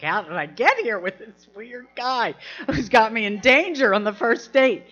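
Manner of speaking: exasperated, half-panicked disbelief; freaking out. Retold or imitated. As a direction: retell an inward freak-out, lightly hammed up. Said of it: "I'm freaking out".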